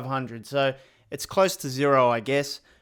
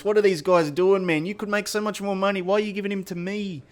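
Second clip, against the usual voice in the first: incredulous; 5 semitones higher than usual. Real, not acted. Disbelief at cheap transfer.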